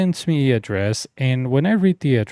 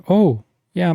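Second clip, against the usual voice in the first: imitating the girl, higher and louder; higher and louder for her; 8 semitones higher, 6 dB louder than usual. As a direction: bump the pitch up for the girl's words. Quoting the girl about her phone.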